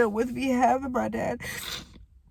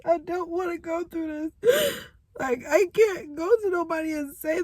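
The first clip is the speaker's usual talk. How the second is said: tearful, cracking rise; crying; 4 semitones higher than usual. Real, not acted. Refusing to keep going through this, crying. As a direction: let the voice crack with tears.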